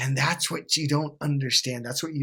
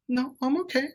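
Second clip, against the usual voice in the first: put-on girlfriend voice; 12 semitones higher than usual. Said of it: "She goes".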